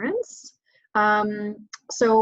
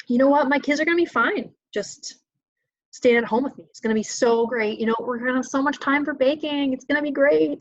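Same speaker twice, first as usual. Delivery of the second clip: higher, bright forced cheer; mock denial cheer; 4 semitones higher than usual. A mom in denial about lockdown, upbeat and higher. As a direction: brush it all off with fake optimism. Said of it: "So that's the denial phase".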